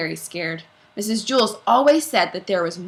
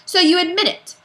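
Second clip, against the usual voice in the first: triumphant accusation; 11 semitones higher, 7 dB louder than usual. Acted. Principal presses accusation.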